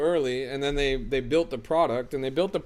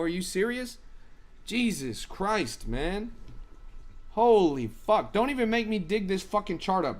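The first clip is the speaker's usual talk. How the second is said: exasperated; 4 semitones higher than usual. Real, not acted. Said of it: "I'm getting worked up right now".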